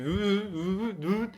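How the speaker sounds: high mouth revving sounds; engine noise imitation. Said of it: "Genre t'accélères, ça fait".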